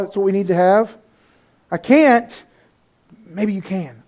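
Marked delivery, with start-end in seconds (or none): 1.7-2.4 louder, flat refusal; defeated. Shown as a demonstration. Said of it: "Hear the difference in our thought?". 3.2-4.0 soft, gentle maybe; hopeful. Shown as a demonstration. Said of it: "Hear the difference in our thought?".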